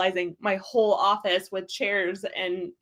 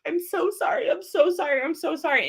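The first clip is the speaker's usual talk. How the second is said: higher-pitched, repeated mock apology; apologetic; 7 semitones higher than usual. Adult apologizing for crying, imitated in a higher apologetic voice. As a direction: act out apologizing over and over. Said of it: "you're apologizing for crying".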